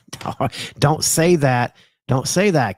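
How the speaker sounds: hammed-up indignant protest; mock outrage. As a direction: play offended to tease.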